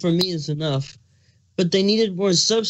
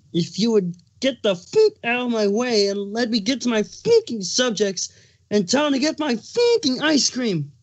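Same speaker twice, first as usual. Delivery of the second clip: rising anger; 4 semitones higher than usual. Acted. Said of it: "his plastered with anger".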